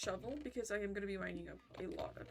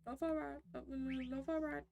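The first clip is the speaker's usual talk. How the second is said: Hugh Jackman impression; 5 semitones higher than usual. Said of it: "the Hugh Jackman impressions".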